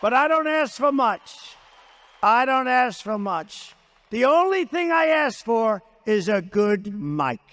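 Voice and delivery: fed-up complaint building to a shout; exasperated complaint. Real, not acted. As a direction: hammer each word of I don't ask for much. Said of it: "I get so angry".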